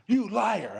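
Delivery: high-pitched shocked accusation, half laughing; disbelieving. Retold or imitated. Wife hearing the bonus, shocked high disbelief. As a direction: squeal it like she can't believe the number.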